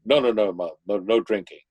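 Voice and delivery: quick, dutiful assurance to Mom; son promising compliance. Retold or imitated. Son to his mother to get the keys, placating promise. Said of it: "she extracts all kinds of promises".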